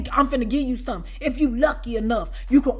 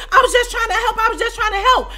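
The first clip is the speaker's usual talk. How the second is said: higher whiny excuse; mock meek excuse; 9 semitones higher, 4 dB louder than usual. The woman excusing herself, higher whiny mock plea. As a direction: mimic her innocent plea.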